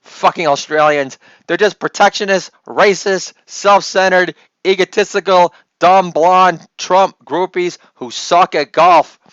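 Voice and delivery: mock Chinese accent, slowing on the insult list; a hint of an angry Chinese official, Chinese accent. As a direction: fume at Australia in a Chinese accent. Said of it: "this is China fuming at Australia".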